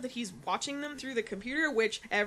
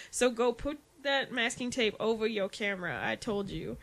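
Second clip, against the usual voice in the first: put-on Jersey accent. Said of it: "It was like a weird Jersey accent".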